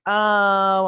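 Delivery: a sudden high, loud "Oh!" of dawning realization; hammed-up surprised oh; mock gasp. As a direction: gasp it out as if catching the foreshadowing. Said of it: "And I'm all like".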